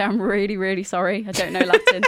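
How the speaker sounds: a laughing, loud, sheepish apology; giggly sorry, half joking; laughing mock apology. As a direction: apologise while laughing at yourself. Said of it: "look at them in their face and say".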